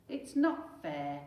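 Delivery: slow, loud whiny wail; a mild childish wail; Henry wailing. Acted. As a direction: drag it out in a sulky wail. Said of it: "wailed Henry".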